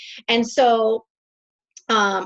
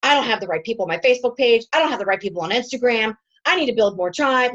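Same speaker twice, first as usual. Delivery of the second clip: rapid-fire mock fretting; retold freak-out; 3 semitones higher, 4 dB louder, faster than usual. Coach acts out her own social media worries, mock panicked and fast. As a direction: rattle off the worries, a little louder. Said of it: "And I'm going like this".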